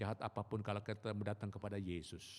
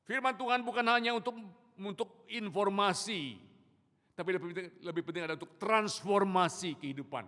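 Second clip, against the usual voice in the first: loud, high, impassioned preaching; preaching at full force; 9 semitones higher, 10 dB louder than usual. Real, not acted. Preacher proclaiming God's word to the congregation, loud and fervent.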